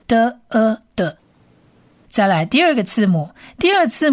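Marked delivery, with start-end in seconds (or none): 0.1-1.2 的呃的 stretched as one syllable; slow model syllable. Shown as a demonstration. Teacher models the syllable for listeners. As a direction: blend 的呃的 slowly. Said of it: "冒号发呃".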